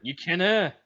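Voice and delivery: clipped Scots canna; Scottish accent. Retold or imitated. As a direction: tease in a Scottish voice. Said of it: "Scottish accent".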